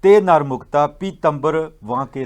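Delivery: scripture recitation. Retold or imitated. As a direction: declaim the verse in measured phrases. Recites closing verse. (ਗੁਰਬਾਣੀ ਦਾ ਹੌਲੀ ਤੇ ਉੱਚਾ ਉਚਾਰਨ)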